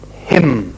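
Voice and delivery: "him" set apart by a pause; stress on HIM. Shown as a demonstration. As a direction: let "him" stand alone, weighted. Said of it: "the emphasis on that word".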